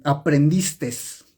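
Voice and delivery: "aprendistes" drawn out, with an extra s on the end; mispronounced example. Shown as a demonstration. Teacher showing students a bad pronunciation, mispronounced "aprendistes". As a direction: say "aprendistes" slowly, adding a wrong final s. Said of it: "mala pronunciación. Es como si aquí en el español tú dijeras".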